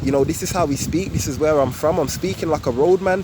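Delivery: London roadman slang, laid-back; roadman accent. Shown as a demonstration. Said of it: "So I could say".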